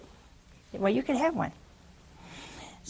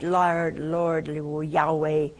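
relieved Elizabeth; 5 semitones lower, slower than usual. Retold or imitated. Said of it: "I bet you said".

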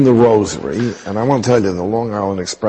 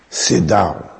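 put-on firm, curt Indian-accented order; Indian-accented sit down, imitated; Mother Teresa's Indian accent; 2 semitones lower than usual. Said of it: "I have to use the accent".

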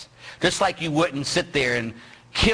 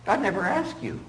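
stern rebuke; 5 semitones higher, 3 dB quieter than usual. Retold or imitated. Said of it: "I always look at them and say".

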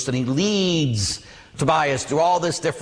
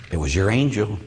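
grandmother; 6 semitones lower than usual. Retold or imitated. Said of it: "my grandmother says".

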